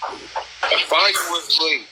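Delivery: drawn out slowly for drama; slow and dramatic. Real, not acted. Host telling viewers about a dramatic comeback, slow and drawn out. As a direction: stretch each word like a trailer.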